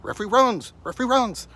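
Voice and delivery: talking dog. Retold or imitated. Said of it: "He goes".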